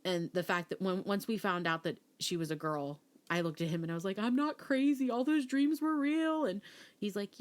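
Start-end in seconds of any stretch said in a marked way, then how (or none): 4.2-6.4 high, louder, slow told-you-so; wife vindicated to husband, high and gloating; triumphant. Retold or imitated. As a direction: draw it out, proud she was right all along. Vindicated after learning it's a girl.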